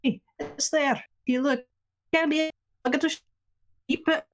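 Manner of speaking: formal, measured conductor announcement voice; train announcement. Acted. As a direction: address all passengers over the intercom. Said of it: "he's gonna make a train announcement".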